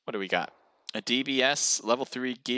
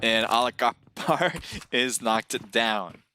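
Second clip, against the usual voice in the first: slow call broken by a laugh; real stifled amusement mid-announcement; laughing while speaking; slower than usual. Real, not acted. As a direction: let a laugh slip into the name. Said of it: "I'm laughing while I say it".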